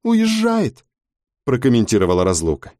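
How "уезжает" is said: high, sharp mocking crone; high mocking old gossip; Razluka's voice. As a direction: sneer it out high above the narration. Character Razluka comments.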